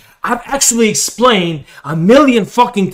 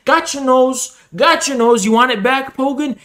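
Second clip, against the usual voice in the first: teasing taunt; 6 semitones higher than usual. Acted.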